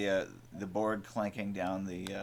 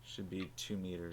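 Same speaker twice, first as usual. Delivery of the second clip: heavy nose breathing; 2 semitones lower, 13 dB quieter than usual. Real, not acted. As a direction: breathe heavily through your nose. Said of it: "Please stop breathing into the mic".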